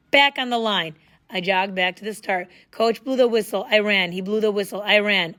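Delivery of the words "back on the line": bark. Acted. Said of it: "he barked".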